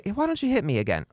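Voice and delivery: quick, high, unthreatening offer; casual coaxing parent demonstration; calm invitation. Shown as a demonstration. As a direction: toss it out lightly to a child. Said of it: "not in a threatening way".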